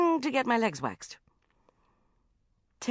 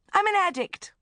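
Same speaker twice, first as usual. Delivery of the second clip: dramatic; 6 dB louder than usual. Acted. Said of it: "then paused dramatically".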